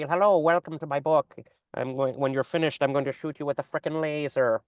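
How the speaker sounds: lightly voiced cartoon villain; a hint of smug movie villain; Doctor Evil voice. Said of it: "I've got my Doctor Evil voice".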